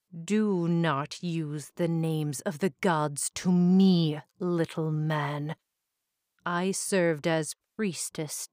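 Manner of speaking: bitter, menacing monster woman; Medusa voice. Acted.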